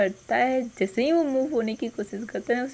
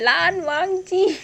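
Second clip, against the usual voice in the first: a higher, drawn-out cry of pain; pained shout; 7 semitones higher, 4 dB louder, slower than usual. Retold or imitated. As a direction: yell the name as the pain hits. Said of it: "वो चिल्ला देता है". (दर्द से ऊँची, खिंची हुई चीख)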